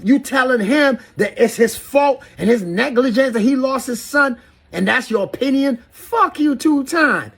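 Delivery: high-pitched, outraged rant; wild up. Real, not acted. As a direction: pitch up in real indignation, drawing out the final curse. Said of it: "you see me wild up like this".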